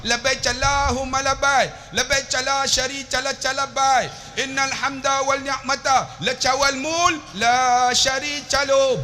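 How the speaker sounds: high, level chant, k turned to "ch"; Turkish-accented talbiah. Retold or imitated. Preacher imitating Turkish pilgrims' talbiah, high accented chant. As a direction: chant Labbaik as "labbaych", Turkish style. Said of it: "Depa talbiah".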